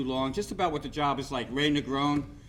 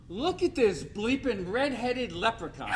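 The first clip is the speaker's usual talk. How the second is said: teasing laugh; 6 semitones higher, slower than usual. Retold or imitated. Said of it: "he goes".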